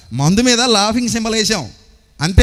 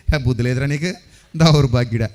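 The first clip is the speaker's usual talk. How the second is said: smiling scolding; 6 semitones lower than usual. Shown as a demonstration. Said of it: "కొంచెం నవ్వుతూ చిరునవ్వు అలా".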